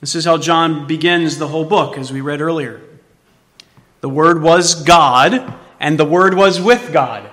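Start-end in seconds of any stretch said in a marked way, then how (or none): 4.0-7.3 slow reading. Shown as a demonstration. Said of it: "How is that?".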